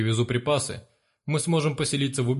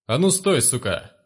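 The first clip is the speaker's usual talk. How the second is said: shouted. Acted. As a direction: bark the order to freeze. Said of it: "прокричал он".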